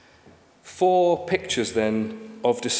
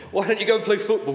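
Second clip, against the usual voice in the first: dad's suggestion; 6 semitones higher, faster than usual. Retold or imitated. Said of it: "his dad would say".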